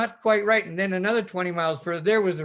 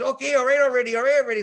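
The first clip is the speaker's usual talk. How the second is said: loud, higher, fed-up okay already; exasperated; 7 semitones higher, 7 dB louder, faster than usual. Retold or imitated. Sailor fed up with the officer's scolding, exasperated. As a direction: brush him off, exasperated.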